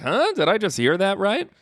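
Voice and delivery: high, incredulous question; retold double take. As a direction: jump up in disbelief at what was heard.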